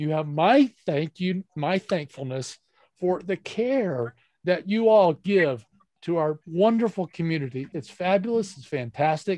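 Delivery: choked-up voice catching with emotion. Thanking the nurses for the care they give the community, choked up with emotion. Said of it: "I get a little choked up".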